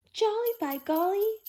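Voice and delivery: high, loud jolly cry; jolly exclamation. A narrator's reading. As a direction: burst out with delight. Barnaby excited about the trick.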